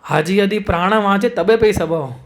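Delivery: slow, measured verse chant; slow Bengali verse recitation; scripture recitation. Acted. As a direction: recite the verse slowly, reverently.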